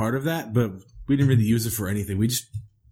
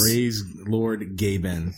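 mock reverent; 3 semitones lower, much slower than usual. Mock reverent meme praise.

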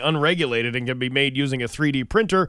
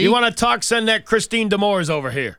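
put-on old prospector; 7 semitones higher, 4 dB louder than usual. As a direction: shoo the kid off like a grouchy geezer. Same grumpy voice continues.

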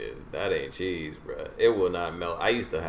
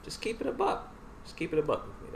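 mock plea; 10 semitones higher, 5 dB quieter than usual. Pleading with mom.

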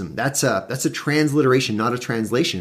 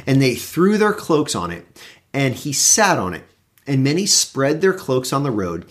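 measured Bible reading voice; scripture reading. Acted. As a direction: read the passage with weight. Reads scripture passage aloud.

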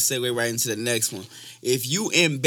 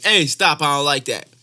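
raised, louder hey and stop; mock firm objection; 4 dB louder than usual. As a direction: call a sudden halt, then ease down. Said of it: "you gonna be like".

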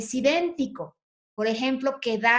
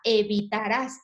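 "Evitarás" with the weight on the final "rás" and a rising end; "Evitarás" stressed at the end, tune rising; stress on last syllable. Shown as a demonstration. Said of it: "la tiene en la última sílaba".

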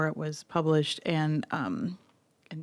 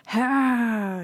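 long airy "haaa", raised pitch; mock "ha"; 5 semitones higher than usual. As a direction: draw out a breezy haaa. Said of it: "And Barack's like".

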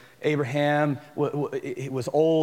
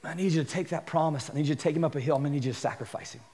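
grave God voice; 2 semitones lower, 6 dB quieter, faster than usual. Retold or imitated. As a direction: speak as God, quietly. God's voice, grave.

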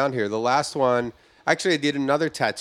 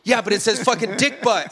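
a squeaky, much higher whine; high whiny protest; 12 semitones higher, 5 dB louder than usual. Retold or imitated. Pranked guy whining to the host about his back.

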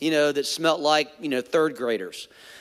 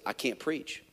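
soft, lower plea; whisper-like admission to your wife; a hushed retold plea; quiet confession; 3 semitones lower, 9 dB quieter than usual. Confessing panic to his wife.

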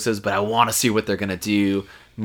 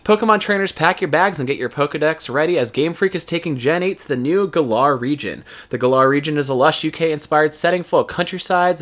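scripted game-news delivery; news read; 4 semitones higher than usual. Real, not acted. Host reading Pokemon news to listeners, scripted news read. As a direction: read it out like a show segment.

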